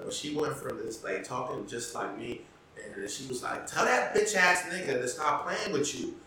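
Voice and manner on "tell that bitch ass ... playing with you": sassy street voice, a bit higher; ghetto girl voice. Retold or imitated. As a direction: imitate her switching to ghetto slang. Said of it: "you're imitating voice was black".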